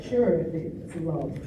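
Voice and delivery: slow, low, dry sarcasm; sarcastic. Retold or imitated. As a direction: drag it out sarcastically. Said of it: "And I'm like".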